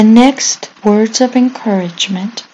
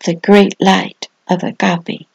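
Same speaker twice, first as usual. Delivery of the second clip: dramatic devotional reading. Acted. Pastor telling little ones to flee the demon, solemn preaching. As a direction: proclaim it like a sermon story.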